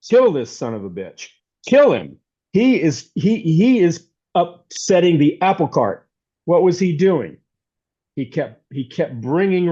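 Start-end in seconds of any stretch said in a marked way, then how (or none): 0.1-6.1 louder, emphatic imitation of an angry mob; mildly hammed-up condemnation; mock outrage. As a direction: act out indignant accusers, punching each phrase. Acted outrage of Jesus' accusers.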